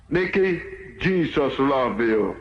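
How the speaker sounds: low, slow and gentle; a hint of a tender preacher; tender reassurance. Preacher's tender words to Nicky.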